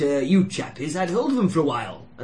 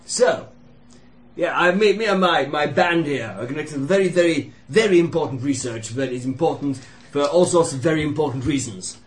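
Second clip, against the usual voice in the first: loud soapbox ranting. Acted. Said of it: "Put him on a soapbox".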